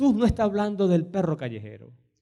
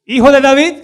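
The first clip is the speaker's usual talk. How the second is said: woman's cry; 6 semitones higher, 13 dB louder than usual. Retold or imitated.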